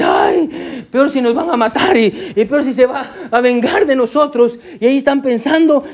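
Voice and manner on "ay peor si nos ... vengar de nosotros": a yelped "ay" breaking into laughing panic; panicked brothers. Retold or imitated. A frightened brother fearing Joseph's revenge, in laughing mock panic. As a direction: play the brothers' fear half-laughing. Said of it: "Y dice".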